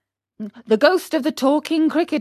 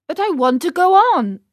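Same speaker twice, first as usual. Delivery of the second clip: stubborn Pinocchio; 8 semitones higher, 6 dB louder, faster than usual. Acted. Stubborn puppet insists.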